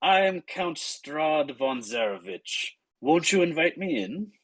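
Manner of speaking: lightly voiced count, unhurried introduction; Count Strahd. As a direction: introduce yourself formally, lingering on the name. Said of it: "the man at the door is gonna say".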